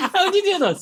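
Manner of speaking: laughing helplessly, high; real laughter, high pitched. Real, not acted. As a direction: giggle through the question. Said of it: "laughing at failed attempt".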